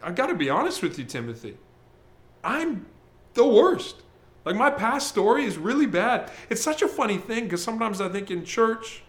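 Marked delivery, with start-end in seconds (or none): 0.0-6.3 confessing. Pretend. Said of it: "Paul's saying".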